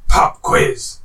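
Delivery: movie villain whisper. Shown as a demonstration. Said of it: "say the first clue in a way".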